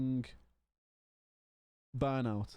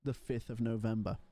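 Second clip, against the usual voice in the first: pleading inner voice. Retold or imitated. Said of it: "my head's like".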